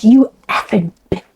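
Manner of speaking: a hint of a gruff man; lightly dropped, mannish snarl; manly voice. Sweet friend cursing the waitress, lightly mannish voice. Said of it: "a totally different voice like a man".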